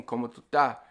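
"estás" shortened to ta; Caribbean "tú estás" as tu ta; ES cut out. Shown as a demonstration. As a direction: say "estás" as just ta, no S. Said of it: "cut out the E S".

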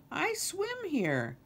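high, drawn-out protest; plaintive alligator. Acted. Alice objects to losing her water, plaintive alligator. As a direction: wail it slowly and high.

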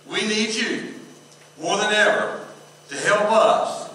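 earnest, steady pulpit prayer; public prayer. Real, not acted. Pastor praying to God before the sermon, earnest prayer.

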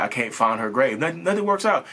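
high-pitched exasperated plea; retold frustration. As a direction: replay giving up, voice climbing high. Retelling his frantic grave search.

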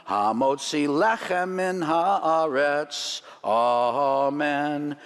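slow, measured prayer recitation; blessing spoken over bread at the table; Hebrew blessing. Shown as a demonstration. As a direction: intone the blessing reverently, slowly. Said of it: "we say the blessing over it".

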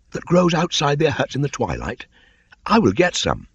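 put-on very high, loud boyish voice; a boy naming it in wonder; young Mowgli. A narrator's reading.

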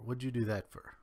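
"What'd you do that for?" run together with a Kentucky twang, "for" reduced to "fer". Shown as a demonstration. Speaker showing his old accent creep back in, Kentucky twang. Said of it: "the quicker you slide into old habits".

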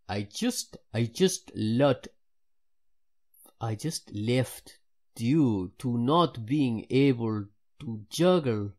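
halting, stretched-out go at a Jamaican accent; badly faked Jamaican, slow and emphatic; attempted Jamaican accent. Shown as a demonstration. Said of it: "Maybe Jamaican. I'll try that".

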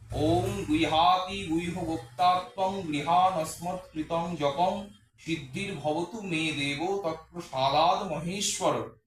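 slow, measured Sanskrit recitation; Sanskrit mantra recitation. Shown as a demonstration. Priest reciting the japa surrender mantra for viewers, slow and measured. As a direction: intone each word of the mantra deliberately. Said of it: "মন্ত্রটা হলো".

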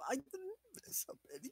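whispered denial. Real, not acted. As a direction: whisper it defensively.

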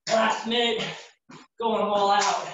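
high, straining push; lifting weights. Real, not acted. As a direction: drive through the last minute. Final minute push.

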